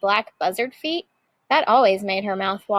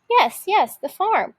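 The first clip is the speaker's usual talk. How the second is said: thrilled idea; 8 semitones higher than usual. A narrator's reading. Witch thrilled by her idea.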